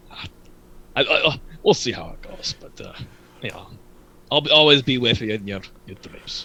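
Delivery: dismissive scoff, chuckling through the words. Voicing a character doubting a brother's plan for peace: scoffing and chuckling. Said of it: "Komos kind of scoffs at this idea, and he kind of chuckles".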